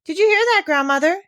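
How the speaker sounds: high, loud delighted call; mother calling to grandmother in joy; calling out excitedly. A narrator's reading. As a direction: call across the room in amazement. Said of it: "she called out".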